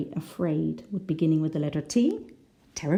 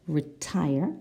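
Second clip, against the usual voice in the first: "retire" stressed on the second syllable, rising at the end. Shown as a demonstration. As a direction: lean on the last syllable of "retire". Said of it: "it's the second syllable".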